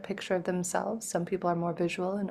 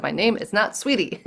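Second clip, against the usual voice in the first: retold yell; 2 semitones higher, 4 dB louder than usual. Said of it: "she just yelled at me".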